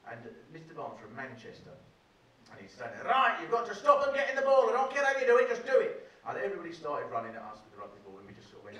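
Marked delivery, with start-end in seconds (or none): 3.0-6.1 loud, hard barked orders from the touchline; shouting PE teacher. Retold or imitated. Rugby teacher bellowing at the boys in a line, loud and hard. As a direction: bellow it like a rugby coach who won't take excuses.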